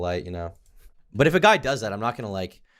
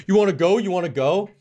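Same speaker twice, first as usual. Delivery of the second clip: high, louder goading tough guy; mock fighting challenge; 9 semitones higher, 4 dB louder than usual. Guy being dragged away at the bar, mock goading challenge. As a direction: imitate a drunk squaring up. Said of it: "this kind of thing to me".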